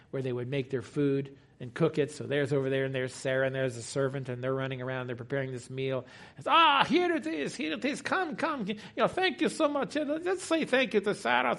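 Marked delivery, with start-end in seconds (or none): 6.5-11.6 high, softer Jewish host voice; Jewish accent. Acted. Host to guests as Sarah's meal arrives, Jewish accent.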